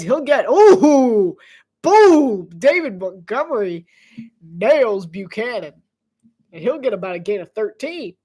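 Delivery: lively sportscaster call of the play; play-by-play voice building to an excited "boom"; play-by-play commentary. Acted. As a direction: call the run like a broadcaster.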